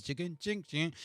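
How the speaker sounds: short chanted jingle noises; mock theme-tune jingle. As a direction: imitate a theme tune's tinkly hits. Imitating a theme tune's sound.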